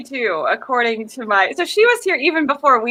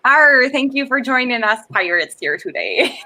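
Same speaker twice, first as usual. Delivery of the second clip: half-hearted pirate host; bad pirate voice. Thanking viewers for joining the pirates, weak pirate voice. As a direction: open on a growled Arr, lightly piratical. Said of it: "I just don't have a good pirate voice".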